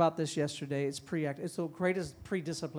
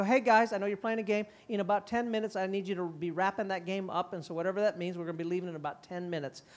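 gentle warning. Shown as a demonstration. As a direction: give the kids a kind ten minute warning. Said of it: "we call it the ten minute warning".

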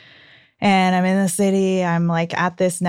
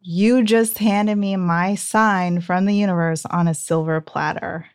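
calm. Retold or imitated. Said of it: "I very calmly say".

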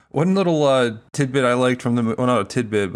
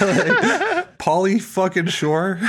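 laughing disbelief; 5 semitones higher, much slower than usual. Real, not acted. Laughing at the Pauly Shore cameo.

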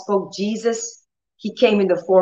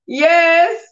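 strained yes; 9 semitones higher, 4 dB louder than usual. Retold or imitated. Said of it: "I said".

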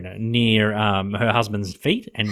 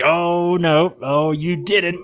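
higher, louder mock outrage; imitating Loretta; 8 semitones higher, 4 dB louder, much slower than usual. Loretta catching Larry in the car, mock-outraged. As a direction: call him out in scandalised mimicry. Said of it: "And Loretta's like".

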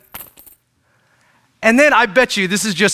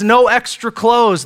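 Jesus forbidding; 4 semitones higher, slower than usual. Retold or imitated. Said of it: "Jesus says".

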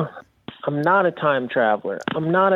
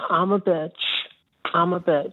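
higher mock girly voice; bitchy girl voice; 5 semitones higher than usual. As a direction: pitch it up like a snippy girl. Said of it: "Hi, bitchy girl voice".

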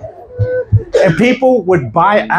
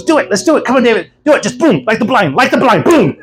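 eager urging, imitated; excited. Excited pastor urging David on to do the miracle, excited. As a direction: egg them on with mounting eagerness. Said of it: "He's really excited to see God do this".

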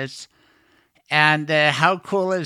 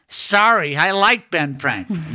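half-voiced imitation of yelling; retold yell back; 2 semitones higher than usual. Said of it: "And she yelled back".

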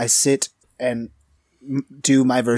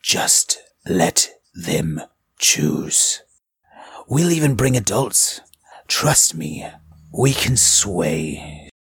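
low, slow opening, measured pauses; lightly voiced solemn game character; grave in-character speech; 3 semitones lower than usual. Speaker warns of war's ravages, a touch of grave role-play.

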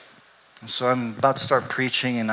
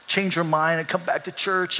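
mild, understated begging prayer; pleading prayer; 4 semitones higher than usual. Retold or imitated. Husband praying for his wife to come back, mildly pleading. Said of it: "I'm, like, begging Jesus".

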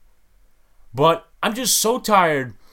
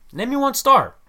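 higher, louder challenge; emphatic demand; 9 semitones higher, 4 dB louder than usual. Acted. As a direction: demand it, pitch up and push. Rant, repeated challenge.

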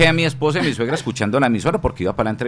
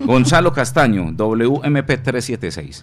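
slow and deliberate; 3 semitones higher, 4 dB louder, much slower than usual. Retold or imitated. Slowly spelling the taxi plate.

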